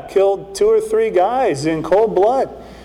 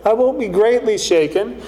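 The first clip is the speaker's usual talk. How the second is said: doubtful; 3 semitones higher than usual. Retold or imitated. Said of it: "he kinda wonders a little bit".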